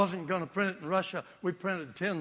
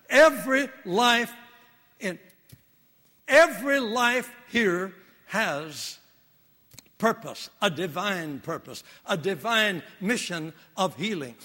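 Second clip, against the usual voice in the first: preaching; 3 dB louder than usual. Acted. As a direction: drive home every life has purpose. Preacher building to main point.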